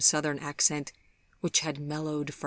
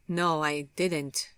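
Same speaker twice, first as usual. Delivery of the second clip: uncomfortable; slower than usual. Acted. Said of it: "he said uncomfortably".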